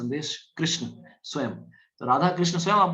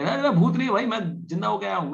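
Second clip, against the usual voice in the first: much higher, louder insistence; pleading protest; 6 semitones higher, 3 dB louder than usual. Retold or imitated. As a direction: call out to stop them fleeing. Man pleading he's alive. (भागते लोगों को पुकारता, ऊँची आवाज़ में)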